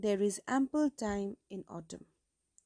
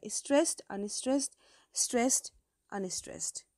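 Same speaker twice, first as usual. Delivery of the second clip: stressed, unstressed, stressed, unstressed with stressed lifted and unstressed dropped quieter; stress pattern demo; 3 dB quieter, much slower than usual. Shown as a demonstration. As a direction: chant the iambic beat, up then down. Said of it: "then it is called pentameter".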